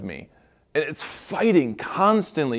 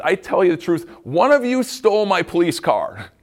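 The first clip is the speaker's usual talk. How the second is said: lightly voiced angry police officer; mock angry officer; 5 semitones higher, 4 dB louder than usual. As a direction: bust in and accuse. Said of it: "busts in all angry and says".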